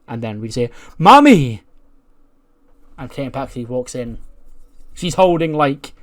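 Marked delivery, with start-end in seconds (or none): 1.0-1.6 high loud cry of mommy; high shouted call for mommy; wailing mommy. Acted. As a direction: shriek it like a needy child. Character cries out for mom.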